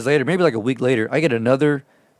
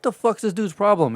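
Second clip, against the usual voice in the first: higher, exasperated mock question; annoyed; 8 semitones higher than usual. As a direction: ask it like you can't believe this guy. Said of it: "I'm like".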